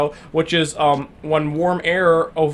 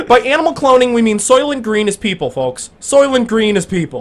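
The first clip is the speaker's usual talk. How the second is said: dramatic announcer; 5 semitones higher, 5 dB louder than usual. Acted.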